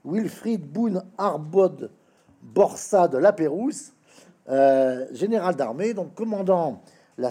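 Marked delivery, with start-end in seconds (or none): 0.1-3.9 "Wilfrid Boone Arbode Borsa de Lapérouse" sounded out slowly, syllable by syllable; hesitant, slow "Wilfrid Boone Arbode Borsa de Lapérouse"; careful pronunciation. Real, not acted. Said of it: "pardon pour la prononciation".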